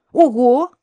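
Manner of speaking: sharp high cry of surprise; startled shout. A narrator's reading. Shoved by the dog, she cries out loudly. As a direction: yelp it out as you nearly fall. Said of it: "крикнула я".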